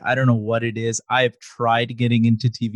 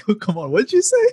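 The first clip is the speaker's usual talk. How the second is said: laughing victim; 9 semitones higher than usual. Retold or imitated.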